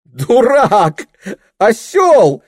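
high, loud insults through nervous laughter; shrieking giggly insults; nervous laughing. Acted. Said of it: "нервно хохотала хозяйка".

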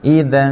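อิดัน with a held, blended nasal ending; blended noon. Shown as a demonstration. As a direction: hold the final N of อิดัน, merging it toward a Q. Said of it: "ให้มีเสียงควบ".

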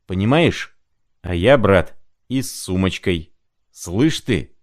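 a hint of a feverish old clerk pleading; rambling sick clerk. Feverish clerk explaining himself to the lodgers, lightly voiced. Prokharchin's muddled monologue.

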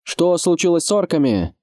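high-pitched question from the wall; lookout butting in. A narrator's reading. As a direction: cut in with a called question. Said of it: "встрял дозорный".

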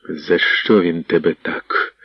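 slowed, grave asking; stern question. Acted. Tall lad asking the beaten man, a hint of sternness. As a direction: ask it sternly. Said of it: "суворим голосом запитав високий парубок".

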